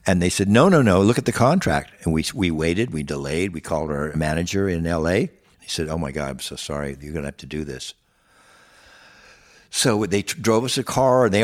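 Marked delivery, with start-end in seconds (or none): 0.5-1.9 loud, firm no no no; insistent retold protest. Promoters insist on contract terms. 5.9-7.9 much softer, lower, sorry tone; apologetic manager. Retold or imitated. Manager apologizes over the phone.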